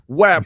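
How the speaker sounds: cartoon punch noise; cartoon whap. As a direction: voice a comic smack. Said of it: "And like a cartoon".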